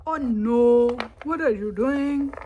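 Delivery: loud cry of alarm; alarmed shout. Real, not acted. Kid yelling at the others, loud and alarmed. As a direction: shout a warning at them. Scolding as the tower wobbles.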